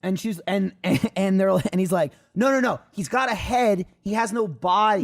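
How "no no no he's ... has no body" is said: slow, higher "he has no body", each part spelled out; insistent correction. Retold or imitated. Neighbor correcting the operator, slow insistence on "no body". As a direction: imitate insisting on "head" versus "no body", slowly and pitched up.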